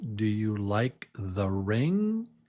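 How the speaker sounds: pitch climbing upward on ring. Teaching question intonation: rising pitch on ring at the end of the question. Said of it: "He goes up".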